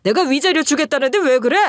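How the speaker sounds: 점점 높아지는 목소리로 아내를 다그치는 아저씨 흉내; 적반하장으로 큰소리치듯; 소리치며. Retold or imitated. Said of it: "이런 식으로 소리치면서". (아저씨가 본처에게 적반하장으로 소리치는 장면, 높아지는 흉내)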